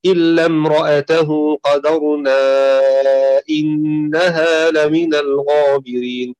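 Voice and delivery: slow, drawn-out tajweed recitation; Quran recitation. Shown as a demonstration. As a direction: recite it slowly, as in prayer. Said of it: "في قوله تعالى هنا". (تلاوة مرتلة بطيئة)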